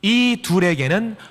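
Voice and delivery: slow, measured recitation; deliberate, drawn-out Bible verse; scripture reading. Acted. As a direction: lead a congregation reading in unison. Leads congregation reading scripture.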